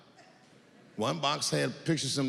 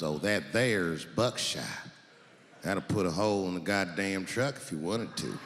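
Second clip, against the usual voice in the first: low gun clerk voice; 9 semitones lower than usual. Retold or imitated.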